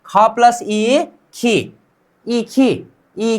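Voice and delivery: slow spelling out. Shown as a demonstration. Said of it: "इसको हम बोलेंगे क्या".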